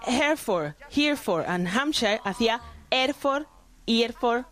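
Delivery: Hereford and Hampshire with the H dropped; mild imitation of dropped-H Cockney. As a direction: swallow every H the way Eliza does. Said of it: "¿qué es lo que hacía Eliza?".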